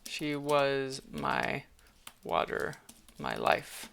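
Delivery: hushed grief. Acted. Heartbroken character line.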